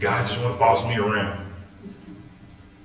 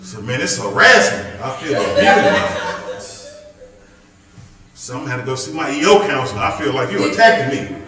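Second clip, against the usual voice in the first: mock victim; 6 dB louder than usual. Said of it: "exaggerated a little bit".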